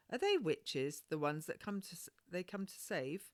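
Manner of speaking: put-on high, curious little girl; a wide-eyed child asking; lightly voiced girl full of wonder; young girl voice. Child Maggie questions the midwife.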